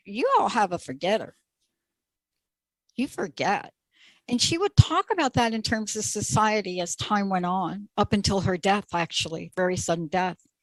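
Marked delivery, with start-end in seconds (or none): 0.1-3.7 half-hearted, weak, sing-song Southern drawl. Speaker quotes what she used to tell the girls, weak attempt at southern drawl. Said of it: "I can't do a, a great Southern drawl".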